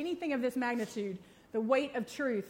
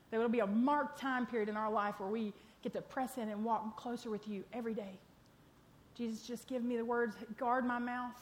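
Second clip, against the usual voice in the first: prayer. Acted. Leads a closing prayer.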